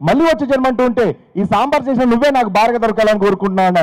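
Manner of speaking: husband heaping praise on the sambar; gushing praise. Retold or imitated. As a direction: rave about the sambar like a lovestruck husband. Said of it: "ఎలా అభినందిస్తున్నాడు చూడండి".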